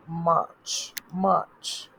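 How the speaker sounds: "মার্চ" as a long "maach", r barely sounded; March demonstrated. Shown as a demonstration. Teacher tells learners to look, "মার্চ" as "maach". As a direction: lengthen the vowel in "মার্চ", ending on a crisp "ch". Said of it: "মার্চে দেখেন".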